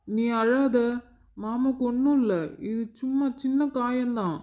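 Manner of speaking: coaxing uncle making light of it; soothing a child. Acted. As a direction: hush a crying little one tenderly.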